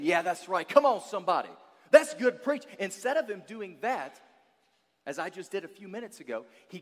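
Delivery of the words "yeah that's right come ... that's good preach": hyped church response. Retold or imitated. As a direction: egg the preacher on louder and louder. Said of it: "instead of saying".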